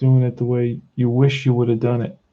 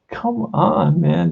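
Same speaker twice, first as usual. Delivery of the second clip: exasperated; much slower than usual. Real, not acted. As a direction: pitch jumps up on "come on", then drops. Frustrated plea to the company.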